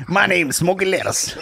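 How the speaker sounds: lightly put-on slow persona voice; alter ego voice. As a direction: introduce yourself as Smoky Lettuce. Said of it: "That could be my fucking alter ego".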